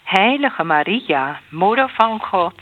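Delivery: measured response with set pauses; prayer recitation. Real, not acted. Answering the Hail Mary with a plea to Maria, measured prayer recitation. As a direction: answer in an even rosary cadence.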